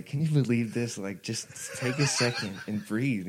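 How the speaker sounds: lightly voiced radio host mocking; a hint of a jeering shock jock; Howard Stern. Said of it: "Howard Stern replaying this clip on his show and just going".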